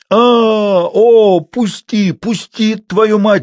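put-on high, desperate old man's wail; loud cry, straining for air; gasping yell. A narrator's reading. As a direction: yell as if suffocating. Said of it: "заорал, задыхаясь на печи старик".

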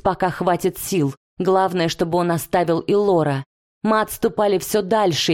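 usual speaking voice

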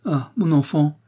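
high, plaintive lament; sorrowful old woman's wail, understated. A narrator's reading. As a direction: moan it in mild distress. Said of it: "gémit la vieille dame".

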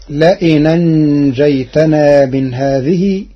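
أنجيتنا بياء ساكنة وتاء مفتوحة ببطء; اقرأ أنجيتنا بالياء الساكنة والتاء المفتوحة; رواية ورش. Shown as a demonstration. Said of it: "بياء ساكنة وتاء بعدها مفتوحة". (تلاوة ورش المتأنية)

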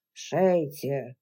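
low hoarse whispered command. Acted. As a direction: rasp the order under your breath. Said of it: "хриплым шёпотом скомандовал Арчи".

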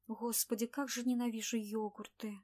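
plain reading voice

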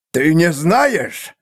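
slow, rising-pitched disbelief; imperious squeak. A narrator's reading. Seer echoes assassin's admission, imperious squeak. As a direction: draw it out as the voice climbs. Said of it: "быстро повысился до властного писка".

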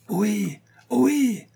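high, drawn-out calling voice; muffled yelp. A narrator's reading. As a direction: yelp for attention in a very high pitch. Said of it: "glapissait une voix étouffée".

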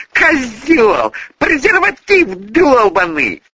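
high, loud furious yelling; raging girl screaming insults at the cheating man; furious cursing. A narrator's reading. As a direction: spit the insults at him.

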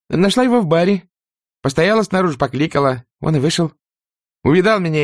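put-on high, timid young servant girl; frightened maid voice. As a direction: squeak it out nervously. Prissy retells meeting Butler. (испуганная служанка)

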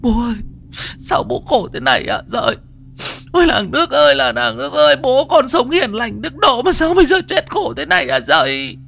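high, loud keening wail of grief; mourning women wail over their father's corpse; wailing lament. Acted. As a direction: cry out to the whole village for a dead father. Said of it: "mếu máo gào khóc".

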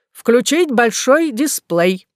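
slow, drawn-out command. Acted. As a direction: order it deliberately. Professor gives a command.

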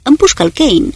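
high, loud urgent command; urgent shouted command; shouted order. A narrator's reading. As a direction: bark the order to fire. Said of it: "strigă Marshall".

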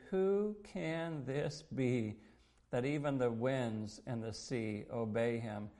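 retold awe, each word drawn out; marveling wonder. Disciples after Jesus spoke to the storm, marveling. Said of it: "the men marveled, wondering".

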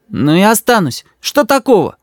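высокий детский голосок, с вызовом; мальчик беззаботно встревает; ребёнок. A narrator's reading. Рис, ребёнок. (дерзкий детский голос)

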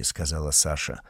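ordinary delivery, nothing marked

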